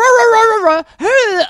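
loud, high wordless ranting; mock bickering noises. Mimicking the couple's fights, loud nonsense squabbling. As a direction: growl and yap nonsense like a quarrel. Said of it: "But instead, it's".

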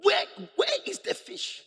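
teasing Jesus. Acted. Jesus teasing skilled fishermen, high mocking questions. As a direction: needle them about the missing fish.

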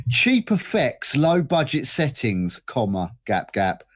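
slow, weighty poem recital; poem reading. Pretend. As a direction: read each line like verse. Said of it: "Try and read it like a poem".

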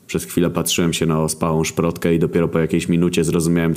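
usual speaking voice

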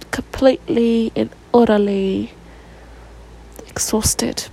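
exhausted whisper. Real, not acted. Telling viewers how drained she is, in a whisper. Tired emphasis.

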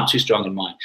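cheeky, amused delivery; little half smile. Shown as a demonstration. Refusing a drink with a half smile. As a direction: say it smiling. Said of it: "a little half smile".

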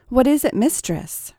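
bow your head as you ask; subservient. A narrator's reading. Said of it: "repeated Tracy more subserviently".

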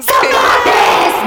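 high, loud shouted "Saudades!"; shouted caps lock. Acted. Texting her boyfriend, a full-lunged all-caps shout. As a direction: yell it like an all-caps text. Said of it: "Parece que gritou do telefone".

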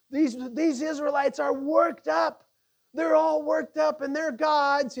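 rally the troops through nerves; worried Philistine. Acted. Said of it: "it's like".

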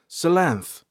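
high, falling note of surprise; surprised reply. A narrator's reading. Ranger gives his name to the caretaker, surprised. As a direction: answer as if taken aback by the question. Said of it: "the ranger replied in surprise".

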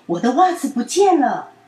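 put-on loud, sulky child complaint; angry child. A narrator's reading. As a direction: stomp out the complaint. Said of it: "品品真的超生气的". (生气地大声说)

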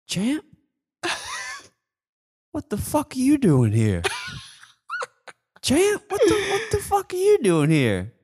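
high, laughing, swaggering hail; smooth talker. Retold or imitated. Friend showing how to greet the champ, swaggering and high. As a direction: hail him like an old buddy. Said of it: "this is what you gotta do".

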